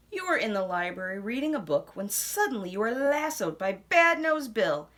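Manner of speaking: lively storybook narration; reading to children. A narrator's reading. Narrator reading a picture book to children, lively. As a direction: read it out brightly to little ones.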